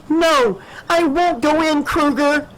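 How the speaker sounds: high-pitched cry of refusal; frightened heroine's high, defiant shout; defiant yell. A narrator's reading. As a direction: yell back at the villain, voice shooting up. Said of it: "she yelled".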